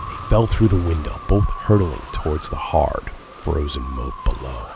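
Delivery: loud, driving climax narration; dramatic action shout. A narrator's reading. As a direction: hurl the words out as they fall. Leap and fall fight scene.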